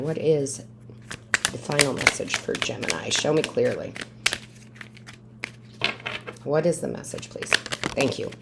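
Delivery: softly petitioning, falling phrase endings; prayerful invocation. Acted. Tarot reader asks Divine Source for Gemini's message, softly prayerful. Murmured prayer while drawing cards.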